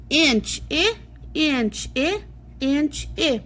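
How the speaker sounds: short "eh" sound with "Inch", clipped. Shown as a demonstration. Teacher showing kids the short i sound, exaggerated. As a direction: punch the "eh" after "inch". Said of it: "And you're gonna say".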